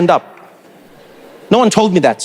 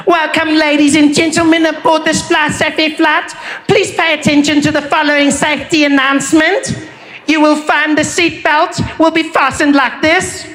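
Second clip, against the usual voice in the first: higher, slow announcer voice; flight attendant announcement; 8 semitones higher than usual. Retold or imitated. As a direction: read it like cabin crew on the phone.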